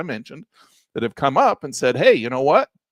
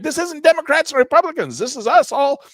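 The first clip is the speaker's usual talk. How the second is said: retold retort; 10 semitones higher, 4 dB louder than usual. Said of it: "And I'm like".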